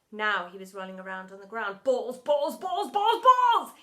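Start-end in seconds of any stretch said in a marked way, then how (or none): 1.8-3.7 rapid repetition building higher and louder; manic muttering. A narrator's reading. Teacher rolling on the ground gone bananas, manic muttering. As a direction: let the babble climb to a cry. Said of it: "he began muttering to himself over and over".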